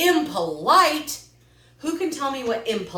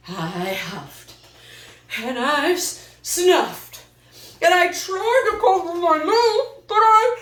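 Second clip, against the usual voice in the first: breathy huffing rising into a sneeze; building sneeze; 7 semitones higher, 4 dB louder, slower than usual. Acted. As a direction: huff and snuff, then build up to a sneeze.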